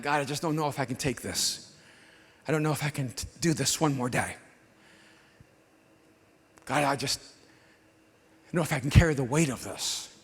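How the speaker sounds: very soft, low, hopeless plea; despairing prayer. Retold or imitated. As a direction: pray it under your breath, worn out. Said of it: "I thought".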